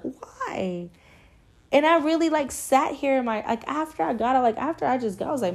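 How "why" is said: "Why?" drawn out as one big question. Real, not acted. Asking herself about the situation, long questioning "Why?". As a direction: stretch "Why?" into a baffled question. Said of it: "like, a big question mark".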